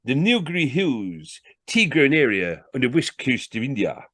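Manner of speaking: salesman announcing a fact from the book; reading aloud. Acted. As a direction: read it out grandly to impress. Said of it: "He read again".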